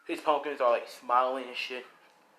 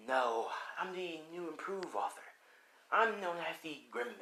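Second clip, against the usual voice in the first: lightly voiced gremlin, pitched up; slightly crazed villain, softer and higher; theatrical Gremlin villain; 4 semitones higher, 9 dB quieter than usual. Gremlin introducing his new self to Spider-Man, theatrical villain.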